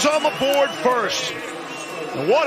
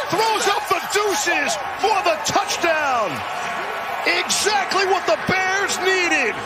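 rising, shouted play-by-play excitement; touchdown call; 4 semitones higher than usual. Real, not acted. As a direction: let the crowd hear it build. Kick return touchdown call.

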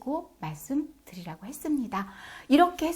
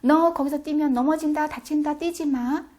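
high, loud calling out; loud shout; 6 semitones higher, 5 dB louder than usual. Shown as a demonstration. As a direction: shout across at a running child. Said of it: "엄마가 큰 소리로 외치죠".

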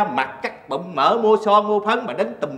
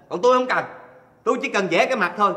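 ordinary talk

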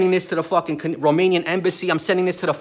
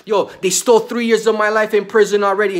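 angry yell; 4 semitones higher, 5 dB louder than usual. Real, not acted. Ranting about stolen years.

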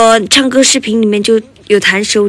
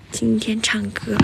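hushed whisper so mom sleeps; 12 dB quieter than usual. Real, not acted. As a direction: whisper it softly. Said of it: "我妈妈在睡觉".

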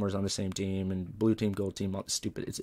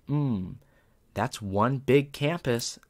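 very slow, higher, deliberate delivery; mock-impressed verdict; 4 semitones higher, 4 dB louder, much slower than usual. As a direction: imitate a principal savouring a punchline. Principal's deadpan joke while reading.

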